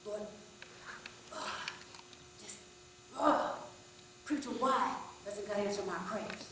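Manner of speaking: exasperated, fired-up plea to the preacher; angry outburst. Retold or imitated. Angry man shouts his question at the preacher. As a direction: let it burst out angry and upset. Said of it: "asked the preacher at the top of his lungs".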